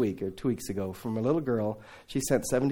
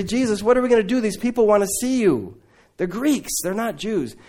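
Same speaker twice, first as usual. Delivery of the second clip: anxious disciples; 7 semitones higher, 4 dB louder than usual. Retold or imitated. Disciples asking Jesus anxiously.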